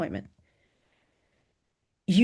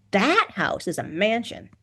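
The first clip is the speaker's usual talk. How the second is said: "That house" slow, higher, precise; 4 semitones higher, slower than usual. A narrator's reading. Student insists the house is grand, "mansion" said with slow precision. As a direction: spell out "That house is a mansion" slowly. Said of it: "she said with precision".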